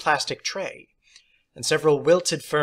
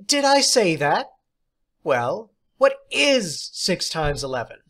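high, louder teacher's voice; theatrical teacher; 5 semitones higher, 5 dB louder than usual. Acted. Substitute teacher praising John, high and theatrical. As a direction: play the odd substitute, grand and pleased. Teacher playfully questions class.

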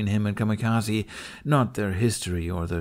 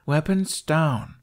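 firm reminder; 7 semitones higher, much slower than usual. Acted. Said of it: "Kamikaze reminded them".

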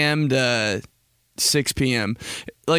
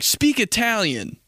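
urging someone; 8 semitones higher, slower than usual. Retold or imitated. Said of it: "when somebody's like".

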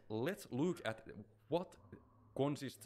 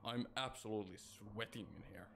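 tense near whisper; 7 dB quieter than usual. Real, not acted. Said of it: "Dude, I'm sweating".

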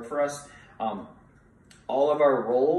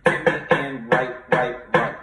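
louder sticking called out; counting along; 5 dB louder than usual. Shown as a demonstration. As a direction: lead the class in the sticking. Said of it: "Do that together".

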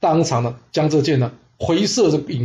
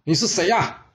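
mild, higher-pitched challenge; loud challenge; 4 semitones higher than usual. Acted. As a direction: call out a question without real volume. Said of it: "这孙公丁大声问他说". (略提高音调喝问)

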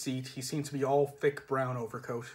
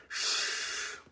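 whispered shush. Acted. Hushing the big one.

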